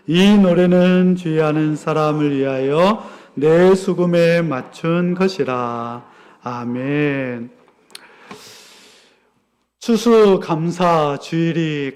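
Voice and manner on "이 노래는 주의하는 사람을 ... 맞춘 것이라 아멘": low, measured Bible recitation; solemn scripture reading. Acted. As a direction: read the verse aloud reverently, in a lower pitch. Reads the scripture passage aloud.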